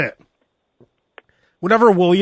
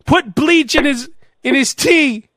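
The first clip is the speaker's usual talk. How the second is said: dark lord; 7 semitones higher than usual. Pretend. King plotting orders.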